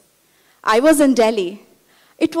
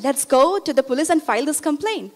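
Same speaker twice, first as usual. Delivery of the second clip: steadier, insistent retold appeal; repeated urging; 3 semitones higher than usual. Student repeating her appeal to the neighbor, insistent. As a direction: press the same point with measured insistence. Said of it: "I said it again".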